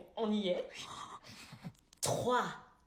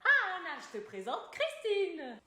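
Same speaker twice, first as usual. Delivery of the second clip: imitating the old lady; 5 semitones higher than usual. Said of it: "la voix de la vieille Morning Star".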